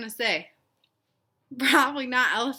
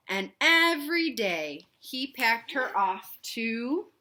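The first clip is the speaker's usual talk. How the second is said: a hint of papa telling a tale, louder; slightly louder papa narrating; lightly voiced papa storyteller; 3 dB louder than usual. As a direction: read it like a dad telling a bedtime story. Papa tells his story.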